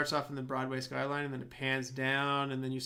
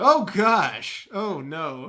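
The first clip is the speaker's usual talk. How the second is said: mock doctor panic; 12 dB louder, much slower than usual. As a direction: ham up a panicked doctor's gasp. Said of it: "no doctor would go".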